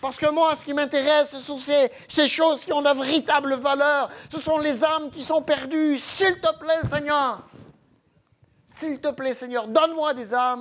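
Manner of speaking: fervent, high, loud pleading cry.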